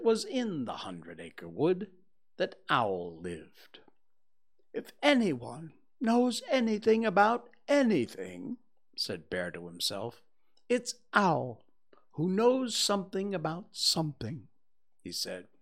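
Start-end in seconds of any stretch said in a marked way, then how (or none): 4.7-8.6 a friendly, eager little bear; cheerful bear Pooh. Acted. 10.7-14.5 a friendly, eager little bear; cheerful bear Pooh. Acted.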